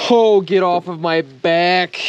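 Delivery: slow strained groan of effort; straining. Real, not acted. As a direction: push the words out with effort. Straining to remove pack.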